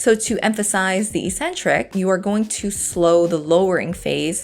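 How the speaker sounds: calm, even voiceover read; walk them through it calmly; voiceover narration. Acted.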